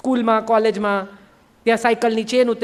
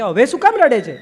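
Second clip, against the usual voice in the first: exasperated question; 2 semitones higher, 6 dB louder than usual. Acted. Kabir asks weeping Lali why she cries now, exasperated. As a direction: ask it in fed-up surprise, raised.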